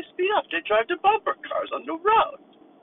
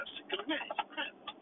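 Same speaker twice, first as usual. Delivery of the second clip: Frank Caliendo impression; 12 dB quieter, slower than usual. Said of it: "Frank Caliendo".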